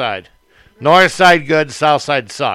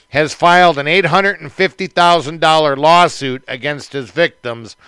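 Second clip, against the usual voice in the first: news read. Real, not acted. Reads out a news story.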